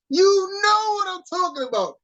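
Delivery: high voice breaking into laughter; laughing tease. Real, not acted. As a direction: tease him while cracking up. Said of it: "You can't even keep a straight face".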